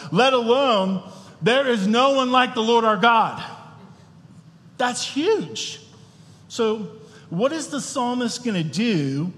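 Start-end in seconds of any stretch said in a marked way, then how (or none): 1.4-3.4 booming proclamation. Acted. Preacher booms the big claim.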